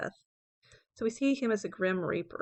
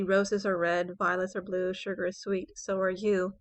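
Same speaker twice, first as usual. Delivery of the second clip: "roses are red, violets are blue" in short, even rhyme units; choppy verse. Shown as a demonstration. Teacher contrasting a nursery-style rhyme, choppy "sugar is sweet, so are you". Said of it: "the very choppy".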